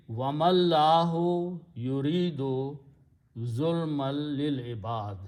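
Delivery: recited verse. Shown as a demonstration. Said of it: "He's saying".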